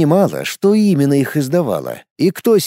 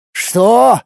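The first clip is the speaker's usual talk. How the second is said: high, loud shocked yell; astonished cry; 8 semitones higher, 4 dB louder than usual. A narrator's reading. Garlin crying out at Lorana in astonishment. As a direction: cry out in disbelief. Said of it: "изумлённо распахнув глаза, выкрикнул Гарлин".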